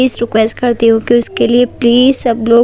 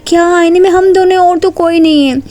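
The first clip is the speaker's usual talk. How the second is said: puzzled; 6 semitones higher than usual. A narrator's reading. Neha confused at mirror.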